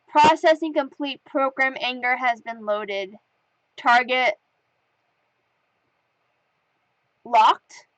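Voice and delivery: lightly voiced computer readout. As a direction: read it like a machine status report, pausing between phrases. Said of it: "computeristic comments".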